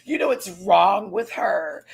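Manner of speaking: slow, drawn-out mock gossip voice; lightly voiced Mistress gossiping aloud. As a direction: say it slowly, savouring the shade. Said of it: "you are now like".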